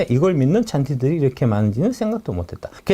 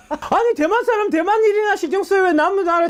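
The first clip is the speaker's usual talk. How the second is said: laughing scoff. Real, not acted. Mocking the Taiwanese figure.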